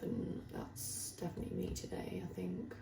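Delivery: softly whispered, trailing away; hushed admission. Real, not acted. Vlogger admitting her emotions are off today, hushed. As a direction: let it sink to a whisper.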